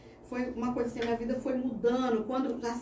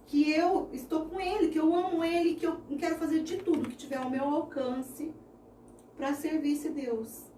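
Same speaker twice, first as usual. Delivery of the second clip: fervent retold vow; 4 semitones higher than usual. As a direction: pour your whole heart into the promise. Passionate retold vow to God.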